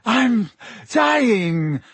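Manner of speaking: high, drawn-out wail; panicked yell. A narrator's reading. Malfoy bleeding on the grass, yelling. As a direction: yell it high like the badly hurt. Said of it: "Malfoy yelled".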